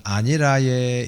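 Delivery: slow, lightly imitated Gyeongsang accent; a touch of drawn-out Gyeongsang dialect. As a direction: stretch it out like a Gyeongsang local. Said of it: "경상도 사람들은".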